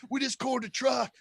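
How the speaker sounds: high, giddy yell; excited cheer. Retold or imitated. Kid in the cornfield cheering at the truck, high and giddy. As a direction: shout it like a kid who just won big.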